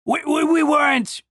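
tripping over the first word in alarm; nervous stammer. A narrator's reading. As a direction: stammer it like a soldier caught out. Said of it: "Yellowteeth stammered".

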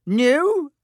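sudden high shrieked outburst, falling at the end; a shrill cry of disbelief, dropping away. A narrator's reading. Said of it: "shrieked Aunt Petunia suddenly".

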